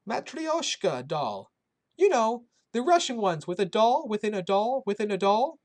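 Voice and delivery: put-on high, loud old Polish woman's accent; kindly old woman with a thick Polish accent. A narrator's reading. Shelter cook greeting the boy in a thick Polish accent. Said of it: "in her thick Polish accent".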